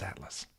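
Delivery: "Atlas" with a short flat A as in cat; own pronunciation. Shown as a demonstration. Streamer answering how they say it, "Atlas" with A as in cat. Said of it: "say how you say Atlas".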